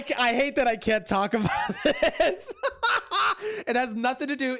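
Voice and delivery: laughing. Real, not acted. Laughing while unable to explain.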